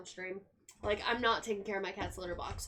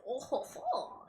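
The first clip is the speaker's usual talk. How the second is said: put-on French accent; 4 semitones higher, slower than usual. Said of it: "speaking in this accent".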